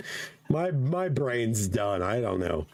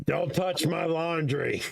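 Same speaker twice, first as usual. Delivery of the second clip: stoop grouch; 4 semitones higher than usual. Pretend. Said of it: "yell at some kids on the stoop".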